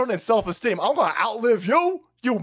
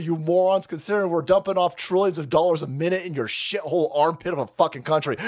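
ordinary talk, nothing marked

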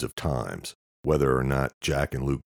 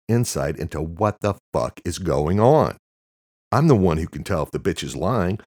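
louder, angry rant; shouting; 4 semitones higher, 4 dB louder than usual. Acted. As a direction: tear into him loudly. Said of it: "Luke shouted".

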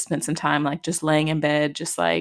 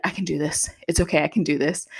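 self-reassuring. Retold or imitated. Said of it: "two minutes later be like".

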